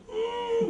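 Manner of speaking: overacted closed-mouth sad moan; mock sad whimper. Shown as a demonstration. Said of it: "If you're sad".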